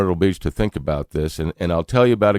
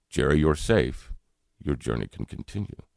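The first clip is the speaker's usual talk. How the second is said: gentle reassurance; 4 semitones lower, 5 dB quieter than usual. Retold or imitated. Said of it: "Those were the exact words".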